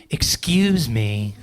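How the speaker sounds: long-drawn, low excuse me; get out of my way. Acted. Lady trying to get by on the elevator, pointedly drawn out. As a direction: drag it out to push someone aside. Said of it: "it's how you say it".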